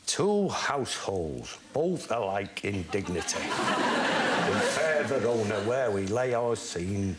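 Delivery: retold nervous recitation. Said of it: "So I got up and I said".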